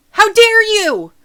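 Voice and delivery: put-on high, loud outraged kid; betrayed shout. Kid shouting at the liar, high and loud. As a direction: scream it at the betrayer.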